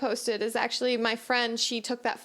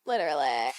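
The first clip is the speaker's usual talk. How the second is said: laughing; 10 semitones lower than usual. Acted. Mocking echo.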